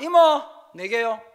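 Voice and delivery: loud, slow call across the room; drawn-out shout to the server; calling out an order. Retold or imitated. Customer shouts the order to the restaurant auntie, loud and slow.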